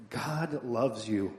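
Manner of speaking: slow, drawn-out attempt at a Southern accent; Billy Graham. Pastor imitating a crusade preacher walking around, slow attempted Southern accent. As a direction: stretch it like a would-be Southern evangelist. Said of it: "I can't do a Southern accent".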